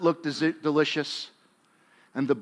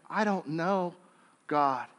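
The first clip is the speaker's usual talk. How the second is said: softer, pleading prayer to God; humble plea; 2 semitones lower, 7 dB quieter than usual. Acted. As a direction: Cain quietly asking God for help, humbled. Cain imagined asking God's help.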